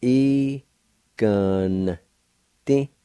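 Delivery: "E, gun, ti" in three separate syllables; N joined to G in "gun", each syllable apart; sounded out. Shown as a demonstration. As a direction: stretch "E" and "gun", short final "ti". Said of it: "pronounce the N sound with the G V like this".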